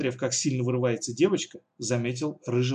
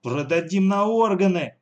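louder and higher, a savage shout; 6 semitones higher, 6 dB louder than usual. Acted. Alisa yelling a threat at the girl, louder and higher. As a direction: yell the threat to scare her. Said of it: "закричала Алиса".

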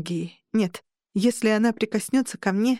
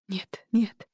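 shouting; 2 semitones higher than usual. Acted. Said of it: "крикнула колдения".

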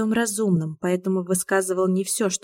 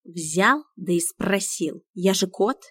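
dignified; slower than usual. Acted. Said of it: "с достоинством объяснил Миун".

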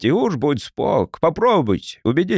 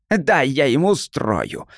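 put-on child's creaky voice, slow. The little brat creaks out a threat to his father. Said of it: "проскрипел он".

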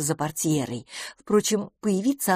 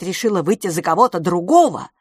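exclaiming; 6 dB louder than usual. Acted. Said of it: "воскликнул Тони".

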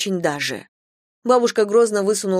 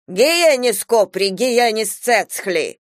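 "Гиенис копри, гиенис цецхли" cried out slowly and louder; grandma's exclamation; 4 semitones higher, 4 dB louder, much slower than usual. Acted. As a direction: fling out the Georgian curse slowly. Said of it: "воскликнула бабушка". («Гиенис копри, гиенис цецхли» медленно и громче, в сердцах)

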